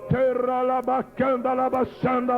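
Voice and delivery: rhythmic tongues chant; speaking in tongues. Real, not acted. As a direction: pray in tongues over the congregation.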